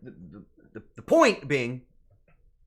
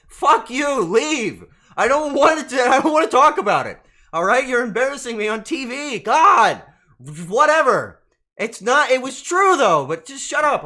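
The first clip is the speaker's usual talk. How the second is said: loud, high flustered shouting at chat; much louder and higher, real embarrassed outburst; embarrassed yelling; 8 semitones higher, 11 dB louder than usual. Real, not acted. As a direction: yell it out, mortified and laughing it off.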